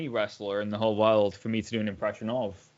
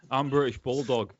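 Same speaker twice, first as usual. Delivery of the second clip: laughing through. Real, not acted. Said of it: "I can't stop laughing before I do it".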